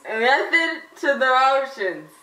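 slow, laughing through a mouthguard; wearing a mouthguard. Real, not acted. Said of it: "it's hard to understand".

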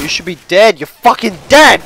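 protest, erupting on DEAD; exasperated yell at the game; indignant outburst. Real, not acted. Rages at a failed shot.

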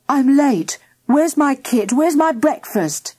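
high, urgent demands; in a hurry. A narrator's reading. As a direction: fire off impatient questions. Boy rushes in, obviously in a hurry.

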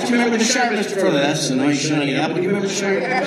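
put-on West Country accent. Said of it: "I would say that before every single line".

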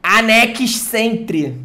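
"Anex Sentry" said slowly, with a heavy Brazilian accent; deliberately mispronounced English card name; deliberately bad English. Shown as a demonstration. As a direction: mangle "Anex Sentry" on purpose, slow. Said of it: "Vou falar tudo errado pro cara ficar nervoso".

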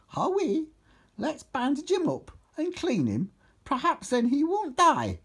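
high, plaintive character pleading; trying not to cry. A narrator's reading. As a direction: plead in a high, tearful put-on voice. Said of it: "whilst trying not to cry".

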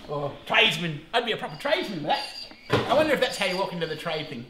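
usual speaking voice

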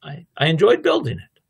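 a hint of a modest craftsman; humble builder. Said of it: "and he says".

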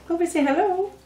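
high coaxing pet talk. Real, not acted. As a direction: coax the rabbit to say hello, gently. Coaxing rabbit to greet viewers.

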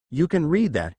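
disbelief. Acted. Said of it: "Disbelief was crawling in her voice".

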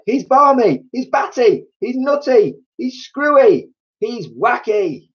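very high squawked exclamations; bird's excited cries. A narrator's reading. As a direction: rattle off shrill squeals, stretching the last. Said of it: "cried the roly-poly bird".

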